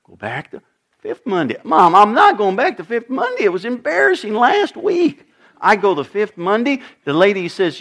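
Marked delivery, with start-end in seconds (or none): 1.6-5.2 whiny protest. Retold or imitated. Son protesting to mom.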